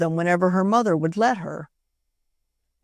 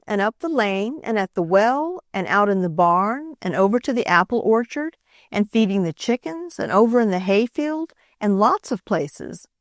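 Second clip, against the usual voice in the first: tearful; 3 semitones higher than usual. Acted. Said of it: "Nan cried harder than ever".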